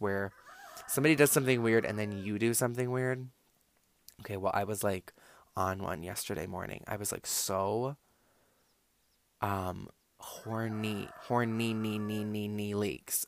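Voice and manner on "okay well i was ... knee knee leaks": soft, hushed, slowed confession; almost whisper the awkward admission; embarrassed hush. Real, not acted.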